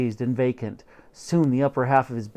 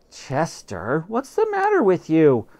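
spluttering; 4 semitones higher than usual. Acted. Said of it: "I spluttered".

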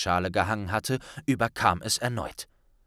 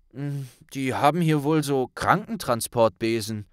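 unsure; 4 semitones higher than usual. Acted. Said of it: "antwortete Ron unsicher".

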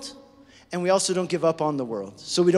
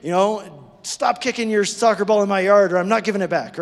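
mock exasperated neighbour. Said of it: "Like we say".

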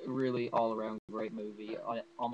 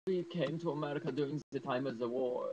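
lightly voiced movie doctor, pitched up; slightly raised, put-on character voice; a hint of the doctor character; bad Nazi doctor impression; 4 semitones higher than usual. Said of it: "That's probably a terrible impression".

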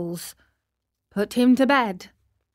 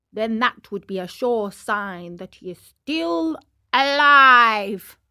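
solemn crow; 3 dB louder than usual. Acted. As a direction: pronounce it like a pompous bird doctor. Crow pronounces Pinocchio's fate.

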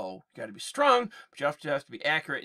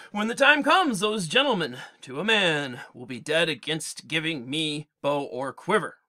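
Odysseus giving orders; 3 semitones higher, 6 dB louder than usual. Acted. Odysseus commanding.

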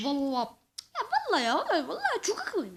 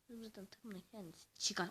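whisper; 6 semitones lower, 14 dB quieter, faster than usual. Real, not acted. Muttering about teammate.

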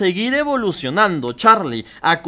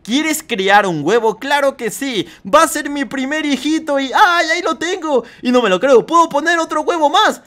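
higher, bright delight at eggs; thrilled about the first egg; excited new parent; 6 semitones higher than usual. Pretend. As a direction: bird parent gushing over new eggs, higher pitch.

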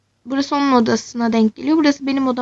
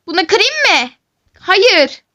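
mock menace; 6 semitones higher, 3 dB louder, slower than usual. Revenge threat exchange.

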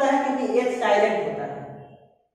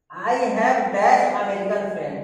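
slow exercise reading; 2 semitones lower, much slower than usual. Shown as a demonstration. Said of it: "Fill in the blanks".

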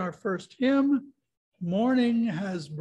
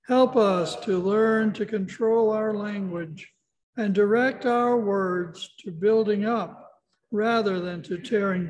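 congregational prayer. Acted. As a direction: lead the church through a reverent prayer, a little raised. Congregation prays together aloud.

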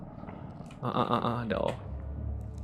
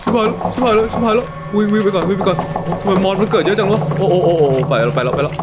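loud, high frantic cries while fleeing; run, run, they are everywhere; panicked shouting; 7 semitones higher, 5 dB louder than usual. Real, not acted. Monsters swarm at night, fleeing.

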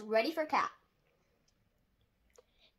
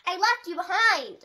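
dismayed cry; 6 semitones higher, 6 dB louder than usual. Acted. Dragon realises he forgot Cat.

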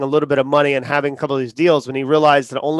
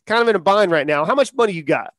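put-on Southern accent; 3 semitones higher than usual. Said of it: "he has, like, a Southern accent".

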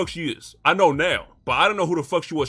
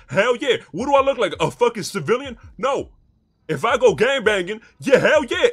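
loud boasting; 4 semitones higher, 4 dB louder than usual. Real, not acted. Boasting in heated argument.

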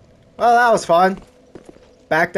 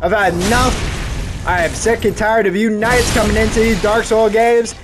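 mock fed-up rant; 4 semitones higher than usual. Mock rant at attacking knights.

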